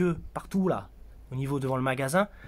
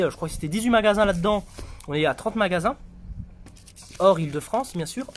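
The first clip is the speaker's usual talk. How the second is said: sore throat voice; 4 semitones higher, faster than usual. Real, not acted. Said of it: "j'ai une angine".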